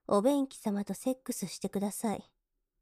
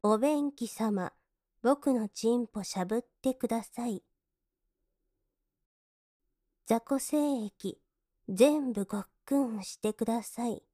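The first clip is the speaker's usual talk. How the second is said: dictating to repeat. Shown as a demonstration. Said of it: "私の言う通りにおっしゃってください".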